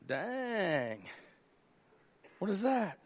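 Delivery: hushed surprise. Acted. Servant spots the cloud.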